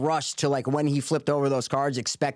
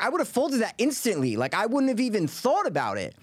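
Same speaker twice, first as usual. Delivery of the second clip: others agreeing; 7 semitones higher than usual. Retold or imitated. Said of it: "everybody else today was like".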